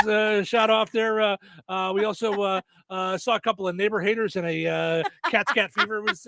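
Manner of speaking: lightly voiced pilot report; mock cockpit radio report. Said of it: "give us your best imitation of a voice".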